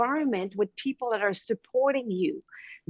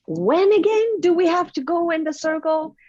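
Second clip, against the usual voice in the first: put-on little girl asking; 7 semitones higher, 5 dB louder than usual. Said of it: "she says".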